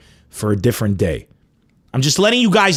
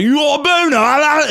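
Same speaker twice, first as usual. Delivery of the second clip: high stuffed-nose mock yell; hammed-up stuffy-nosed schoolboy; blocked-nose voice; 11 semitones higher than usual. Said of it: "his nose was blocked".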